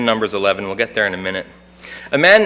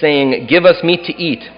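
scripture reading. Acted. Reads Numbers eleven aloud.

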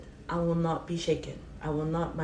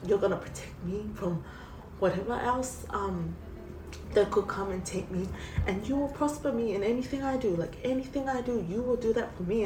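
higher, choked-up voice close to tears; tearful prayer; 5 semitones higher than usual. Real, not acted. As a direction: pray to the Lord as if about to cry. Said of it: "And I'm gonna cry now".

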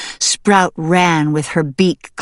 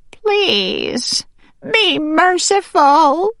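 high, trembling plea for mercy; pleading, trembling; 12 semitones higher, much slower than usual. A narrator's reading. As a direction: beg desperately, drawing the words out. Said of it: "the weasel pleaded, her voice trembling".

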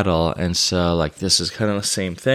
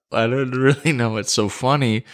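laughing through words; 5 semitones higher than usual. Retold or imitated. Quote said while laughing.

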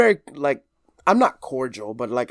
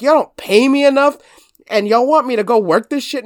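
imitating mom's complaint; 7 semitones higher, 4 dB louder than usual. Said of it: "She'll be like".

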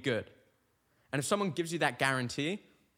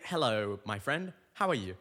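polite proper greeting; 2 semitones lower than usual. Shown as a demonstration. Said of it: "That's how I do it".

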